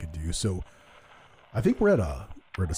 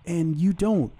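high-pitched puzzled challenge, imitated; mock-puzzled, higher-pitched question; questioning visitor; 10 semitones higher than usual. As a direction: imitate a nosy guest demanding an explanation. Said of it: "someone's like".

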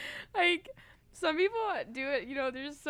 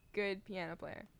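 "good piano player" said softer and lower, barely committing; mumbled reluctant; 7 semitones lower, 9 dB quieter than usual. Shown as a demonstration. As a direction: mutter "good piano player" under your breath. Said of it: "I'm not taking that".

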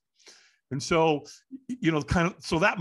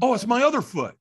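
higher, louder retold exclamation; sudden realisation; 8 semitones higher, 5 dB louder than usual. Firewalker finding no burns on the first foot, sudden realisation. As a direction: jump on the new explanation.

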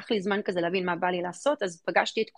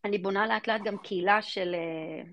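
normal talking voice

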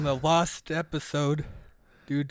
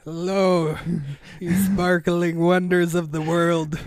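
a touch louder, lightly hammed-up host greeting; mock gushing greeting; 4 dB louder than usual. Co-host imitates a YouTuber greeting his followers, lightly mocking. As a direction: lightly parody an over-positive video host. Mocks Brand's usual video greeting.

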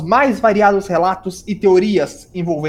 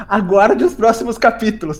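laughing quote. Retold or imitated. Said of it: "a gente já tá metendo um".

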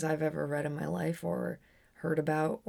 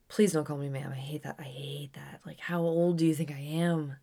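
whispered aside. Real, not acted. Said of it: "whispered aside".

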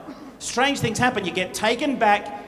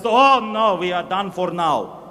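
mock dread; 4 semitones lower, slower than usual. The soldier hears barley and groans in mock dread. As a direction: groan that they're doomed. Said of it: "the other guy says".

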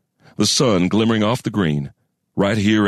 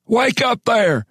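put-on high, drawn-out old man's call; slow, high-pitched wake-up call in a harsh old voice; old man, a little louder; slower than usual. A narrator's reading. Old man repeating himself to wake miners, a little louder. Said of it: "a little louder".

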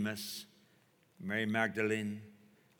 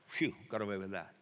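quick, softer relieved aside; 4 semitones lower, 5 dB quieter, faster than usual. Retold or imitated. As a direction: mutter your relief to yourself.

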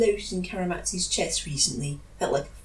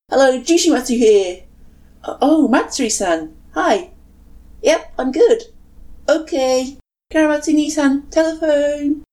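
louder, bright phone greeting; loud cheerful; 8 semitones higher, 8 dB louder than usual. Acted. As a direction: call out through the hall. Jushimatsu shouting on the phone.

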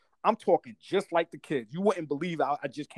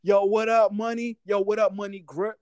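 raised-pitch hustler greeting demo; old-school street greeting; 4 semitones higher, 3 dB louder than usual. Shown as a demonstration. Showing how he grew up talking, street-hustler greeting. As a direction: hail a buddy in old New York street slang. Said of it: "that's how I grew up".

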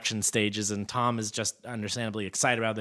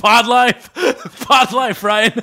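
sharp shouted name, high and loud; 11 semitones higher, 11 dB louder, slower than usual. Acted. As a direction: yell it at him, pitched up. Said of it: "Why are you yelling at me".

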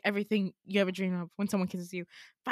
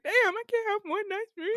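frustrated shout; 10 semitones higher, faster than usual. Retold or imitated. Waking up from a ruined dream, shouting in frustration. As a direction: yell it out in exasperation. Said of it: "And I was like".

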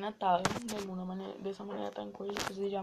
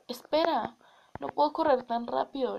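calling out; 3 semitones higher, 6 dB louder than usual. Acted. Frog calls after the princess.

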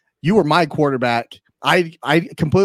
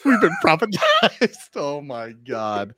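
laughing; slower than usual. Real, not acted. Cracking up after the act.

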